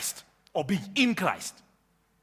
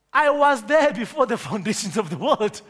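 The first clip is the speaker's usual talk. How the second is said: louder, declared like a firm belief; said with conviction; 4 dB louder than usual. Shown as a demonstration. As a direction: proclaim it as if you believe it. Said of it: "Please say it like you believe it".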